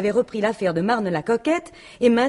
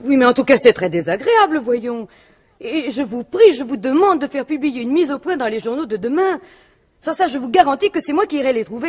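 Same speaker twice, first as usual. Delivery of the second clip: louder, firm and indignant; indignant demand; 3 semitones higher, 4 dB louder than usual. Acted. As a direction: lay down an ultimatum, offended. Widow demands a correction, threatens. (exigence indignée, plus forte)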